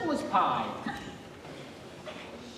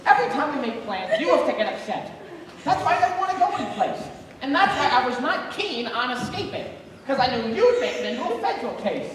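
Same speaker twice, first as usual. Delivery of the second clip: exasperated scolding; 4 semitones higher, 5 dB louder than usual. Acted. Husband scolds crying wife.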